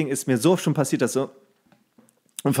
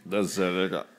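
much lower, softer, forced fake praise; fake enthusiasm; 8 semitones lower, 8 dB quieter than usual. Actor forcing praise of drink, low mock delight. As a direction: say it like you're choking it down. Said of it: "machst dann so".

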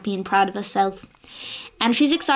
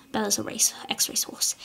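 whispered aside; 7 dB quieter than usual. Real, not acted. Aside about Bella's past.

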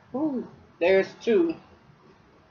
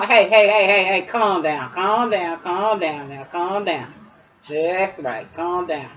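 soothing dog; slower than usual. Real, not acted. Owner calming the dog.

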